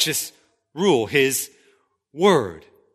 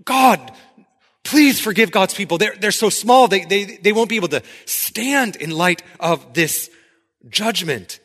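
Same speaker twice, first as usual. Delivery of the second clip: pleading cry; 3 semitones higher than usual. Retold or imitated. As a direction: beg God for mercy for the small people, then fade. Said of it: "Amos responds and cries out".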